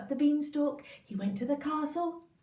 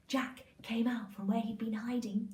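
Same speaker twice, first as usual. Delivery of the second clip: usual speaking voice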